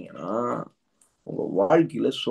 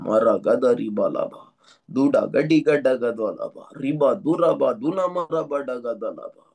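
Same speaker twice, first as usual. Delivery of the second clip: speaking in tongues; slower than usual. Acted. Speaking in tongues during prayer.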